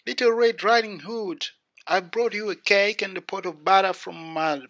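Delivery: put-on little girl voice. A narrator's reading. Red Riding Hood answers at the door, high girl voice.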